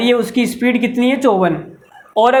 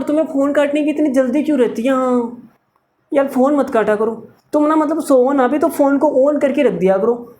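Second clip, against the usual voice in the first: put-on whiny lovesick boy; 2 semitones higher than usual.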